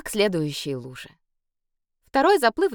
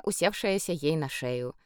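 ordinary delivery, nothing marked

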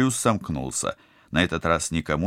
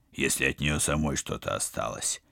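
rasping, softer, lower; hoarse; 4 semitones lower, 6 dB quieter than usual. Acted. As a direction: wheeze it out hoarsely. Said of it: "прохрипел Роджер".

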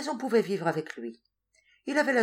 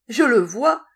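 high, loud cry of delight; gleeful exclamation; 7 semitones higher, 11 dB louder, slower than usual. A narrator's reading. Madwoman spotting her lost cockchafer, gleeful exclamation. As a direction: exclaim it in triumph, much louder. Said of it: "s'écria-t-elle en riant".

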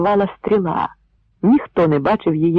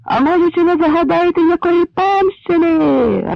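bellowed taunt; 13 semitones higher, 4 dB louder than usual. Acted. Dovhoshyii bellowing a jeer at the Poles, high and loud. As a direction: roar it at the wall. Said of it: "ревнув Довгошиїй".

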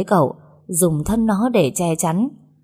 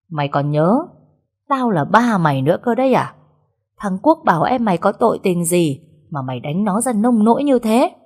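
a father's scolding, somewhat louder; lightly voiced furious father; angry father; 3 semitones higher, 3 dB louder than usual. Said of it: "ông đang giận". (giọng người cha tức giận)

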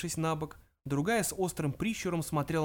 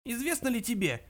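put-on high, elderly, severe questioning; old man's indignant high voice; stern old ghost; 8 semitones higher than usual. A narrator's reading. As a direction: confront him sternly as an ancient ancestor. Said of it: "вперев в Зафода суровый взгляд".

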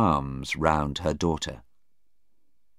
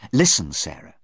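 quick attention-getter, slightly louder; quick, urgent; 5 dB louder than usual. Acted. Anna before the doctor comes, quick and urgent. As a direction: get her attention fast. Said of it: "she said quickly".

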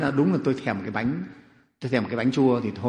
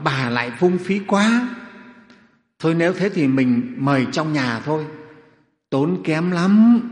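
acted protest; 3 semitones higher, 5 dB louder, slower than usual. Miser husband scolding his wife for extravagance, mildly exasperated. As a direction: grumble at the waste. Miser objects to wife's spending.

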